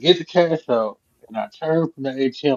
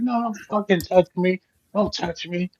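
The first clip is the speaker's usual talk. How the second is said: imitating her, higher and snappy; a mock refusal, pitched up; angry old lady; 6 semitones higher than usual. Old lady on the floor refusing his help, mock angry and high.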